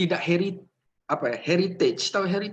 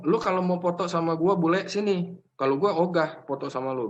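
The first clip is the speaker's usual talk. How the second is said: a bit of a tough guy; 4 semitones higher than usual. Pretend. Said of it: "Jadi agak jagoan dikit".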